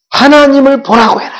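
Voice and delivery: high, forceful shout; loud proclamation. Acted. Preacher relaying God's command, loud proclaiming shout. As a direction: proclaim it at full voice.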